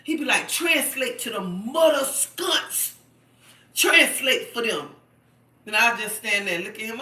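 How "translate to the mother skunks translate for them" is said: loud, slow, heated imitation of him; put-on irritated demand, punched hard and stretched; mad husband. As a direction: mimic his angry order, drawing it out forcefully. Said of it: "he get mad".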